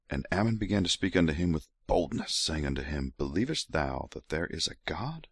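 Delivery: hint of a seductive read; mock sexy voice. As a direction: breathe the scripture like a come-on, lightly. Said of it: "sexy voice is over".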